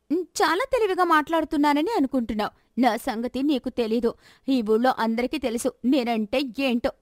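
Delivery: a daughter confronting her gambling father; accusing daughter. Acted. Daughter threatens.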